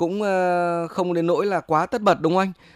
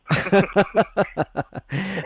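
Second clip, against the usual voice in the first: high, rapid burst of laughter; hearty laugh; 5 semitones higher than usual. Real, not acted. Host laughs at caller's remark.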